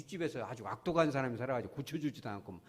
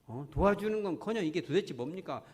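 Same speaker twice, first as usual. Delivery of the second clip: a touch of exasperated protest; complaining prayer. Acted. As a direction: imitate Paul grumbling to God. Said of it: "원망 불평부터 나오는 거예요".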